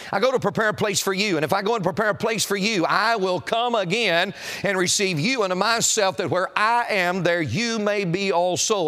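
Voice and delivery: "you" leaned on each time in the verse; "you" picked out with deliberate weight; stress on "you". Real, not acted. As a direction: recite scripture, pressing on the word "you". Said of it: "I emphasize the word for a reason".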